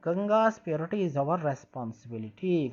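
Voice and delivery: slow, careful read-aloud of English text; slow textbook reading. Shown as a demonstration. Teacher reading the textbook line slowly to pupils. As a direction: read each word out slowly for the class.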